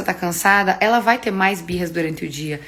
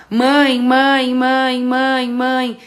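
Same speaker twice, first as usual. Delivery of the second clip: higher, louder insistent calls of Mãe; nagging kid calling out over and over; whiny child calling for attention; child calling mom; 4 semitones higher, 4 dB louder, much slower than usual. Retold or imitated.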